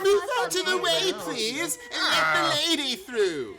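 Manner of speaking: urgent pleading cry over the rabble. Acted. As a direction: shout to make way for the lady. Disguised Holmes calls over crowd.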